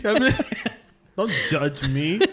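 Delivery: talking through laughter; giggly and loud; laughing. Real, not acted. Laughing while confessing.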